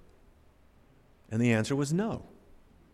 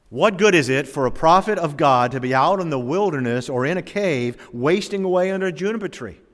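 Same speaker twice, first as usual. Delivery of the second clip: ordinary talk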